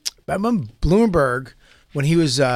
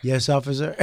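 mock innocent. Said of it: "stuck his lips up".

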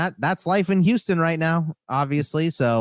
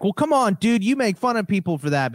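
imitating a hissy fit; 8 semitones higher than usual. Radio host whining at his co-host in a mock hissy fit. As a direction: squeal it like a host losing his cool. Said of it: "throwing just this hissy fit".

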